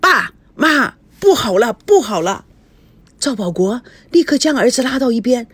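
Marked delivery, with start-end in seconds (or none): 0.0-2.4 flustered alarm. Acted. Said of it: "慌慌张张地跑进屋".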